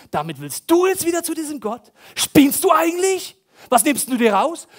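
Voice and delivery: loud, high, sneering accusation; accusing devil voice. Retold or imitated. The accusing devil berates a guilty Christian, loud and sneering. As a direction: tear into the listener like the accuser. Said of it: "Die sagen".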